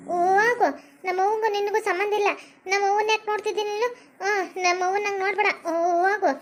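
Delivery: angry shooing. Acted. Sister driving the ghost away from her mother, angry then tearful. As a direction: chase the ghost off, near tears.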